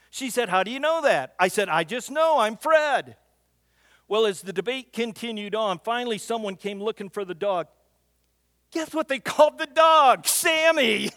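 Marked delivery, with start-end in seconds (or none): 0.5-1.3 mock-indignant demand; insistent challenge. Retold debate with daughter. 1.7-3.1 mock-proud declaration; smug insistence. Retold debate with daughter. 8.7-11.1 loud, high exclaim of the name; gleeful shout, payoff of the joke; triumphant punchline. Real, not acted. Punchline of funny story.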